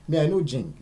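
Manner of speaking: loud, high mocking exclamation; high mock brag; mock pidgin boast. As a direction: shout it like showing off the slang.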